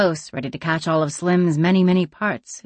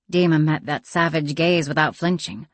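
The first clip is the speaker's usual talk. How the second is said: ordinary delivery, nothing marked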